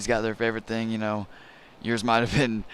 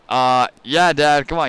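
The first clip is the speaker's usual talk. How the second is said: put-on exasperated kid; 2 semitones higher, 6 dB louder than usual. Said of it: "I was like".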